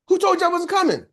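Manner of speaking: high, affronted imitated question; mock indignation. Speaker phoned about attendance, retold as indignant. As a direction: play a friend offended at being written off.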